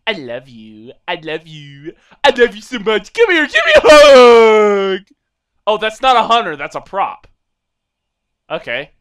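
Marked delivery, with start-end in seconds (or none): 0.1-5.1 goofy love crescendo; building affectionate yell. Pretend. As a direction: swell from a murmur to a shout. Building love shout to hunter.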